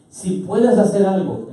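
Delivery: slow, emphatic plea; father's request. Acted. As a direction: state the request slowly and firmly. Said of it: "El padre le dice a Jesús, ¿cómo?".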